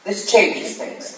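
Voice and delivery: slow, hushed and barely voiced; grave murmur. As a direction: let the weight of the discovery sink in quietly. Detective realizes lie about murder.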